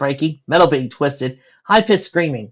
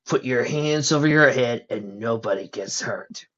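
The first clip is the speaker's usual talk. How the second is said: slow gruff mugger; lightly gruff threat; slower than usual. Acted. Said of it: "came a gruff voice".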